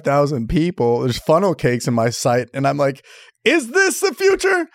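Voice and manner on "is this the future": very high, slow, incredulous; mock wonder. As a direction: stretch it out like you can't believe it. Wondering at outdoor show.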